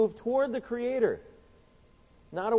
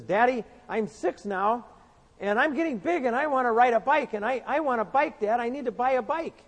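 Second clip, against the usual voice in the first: put-on little boy voice; 5 semitones higher than usual. Preacher voicing Johnny begging his daddy, higher child voice. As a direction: beg like a six-year-old wanting a bike.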